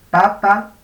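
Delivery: "Pa, pa" punched out loud with explosive voiceless p's; loud demo "Pa, pa" for the class. Shown as a demonstration. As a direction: spit out "Pa, pa" hard and voiceless. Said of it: "Cuando yo cambio una por otra".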